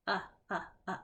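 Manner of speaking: repeated uh, uh, uh; short U sound. Shown as a demonstration. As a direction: sound out the short U three times. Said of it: "Is that short or long?".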